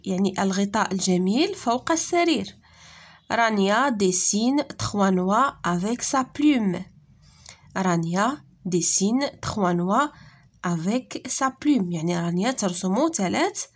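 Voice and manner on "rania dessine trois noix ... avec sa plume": slow model sentence. Shown as a demonstration. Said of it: "Lis les phrases".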